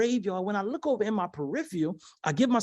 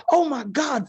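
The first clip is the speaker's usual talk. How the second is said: mock excited cry, higher and slow; excited squeal; 5 semitones higher, 4 dB louder, slower than usual. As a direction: imitate the thrilled daughter, lightly. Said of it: "what my daughter was screaming about".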